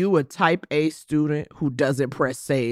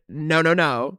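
put-on Mama Young; 2 semitones lower, slower than usual. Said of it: "Mama Young said".

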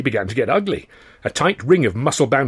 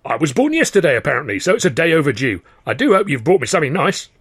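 cheeky gatekeeper; 5 semitones higher, 4 dB louder than usual. Acted. Gatekeeper teasing a newcomer.

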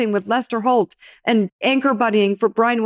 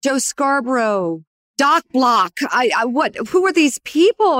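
retold bewildered shock; 5 semitones higher than usual. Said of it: "I'd be like".

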